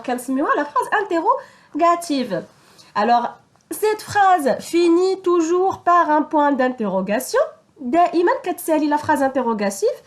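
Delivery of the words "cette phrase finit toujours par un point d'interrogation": slow dictation. Shown as a demonstration. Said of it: "dictating rule slowly".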